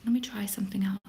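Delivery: half-whispered aside to self; barely voiced while busy; under the breath. Real, not acted. Streamer fiddling with chat settings, under the breath.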